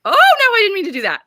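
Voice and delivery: sudden high, loud, fast oh no; startled oops. Real, not acted. Host fumbles the on-screen layout, startled oops. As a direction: caught off guard by a slip, blurts it out.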